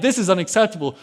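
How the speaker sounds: mildly indignant retold protest; offended. David objects to insults against his God, offended. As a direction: voice David's offense, lightly acted. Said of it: "David is offended".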